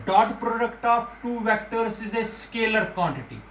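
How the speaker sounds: very slow, word by word; slow dictation. Shown as a demonstration. Teacher making students memorise the term, very slowly. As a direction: spell it out slowly for the class. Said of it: "ये याद रखना".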